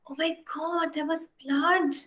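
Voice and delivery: gasping, hushed horror after the scream; horrified gasp. Acted. Wife reels at the blood on the mongoose, a gasping hushed horror. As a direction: catch your breath in shock.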